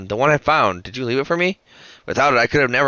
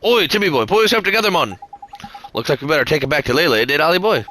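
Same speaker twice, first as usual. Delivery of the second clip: hammed-up Drippy; 3 semitones higher than usual. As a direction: chivvy the lazy cat along. Drippy rouses the cat.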